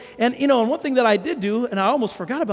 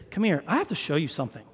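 low, soft, private aside; confidential summons; 7 semitones lower, 9 dB quieter, faster than usual. Acted. Watch fixer calling a friend into his office, confidential. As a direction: call someone over quietly, voice dropped.

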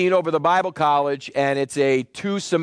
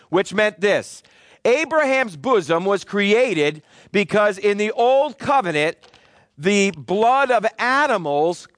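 emphatic preaching; 3 semitones higher than usual. Real, not acted. Preacher explaining Abraham's bosom to the congregation, emphatic preaching. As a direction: preach it firmly, phrase by phrase.

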